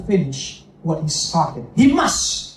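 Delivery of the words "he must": "He" pitched higher and stressed; emphasis on he must. Shown as a demonstration. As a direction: lift and punch the word "He". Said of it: "there's an emphasis on that word".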